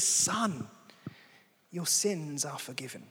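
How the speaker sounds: lightly voiced tender Jesus. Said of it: "approaches this guy with such tenderness".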